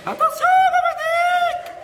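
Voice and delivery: very high, loud shouting captain; cri du capitaine. Acted. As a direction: bellow it in a squeaky put-on captain voice. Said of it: "pourquoi est-ce qu'il parlait comme ça". (capitaine enrhumé qui crie, voix aiguë)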